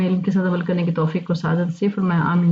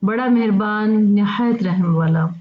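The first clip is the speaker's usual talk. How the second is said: slow translation; slower than usual. Shown as a demonstration. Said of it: "तो इसका तर्जुमा बनेगा".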